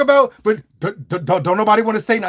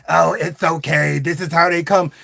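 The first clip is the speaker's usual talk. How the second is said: raspy saleswoman; 3 semitones lower than usual. Retold or imitated. Voicing raspy-voiced saleswoman.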